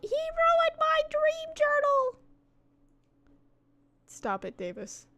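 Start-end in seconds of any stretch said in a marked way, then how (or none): 0.0-2.2 high, slow teasing whine; mock whine. Streamer echoing her boyfriend's joke in a high, slow whine. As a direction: stretch it out like a pouting kid.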